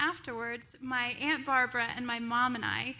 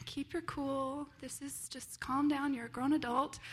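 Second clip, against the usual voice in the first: calming self-talk; 5 dB quieter than usual. Retold or imitated. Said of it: "I'm like".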